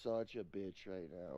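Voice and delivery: shivering complaint; low, miserable whine; cold and miserable. Real, not acted. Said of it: "I'm cold".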